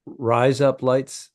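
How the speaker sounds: "Rise up, lights" run together as Australian "razor blades"; Australian accent attempt. Shown as a demonstration. Comics testing the accent tip, Australian attempt. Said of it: "That's how the accent should sound".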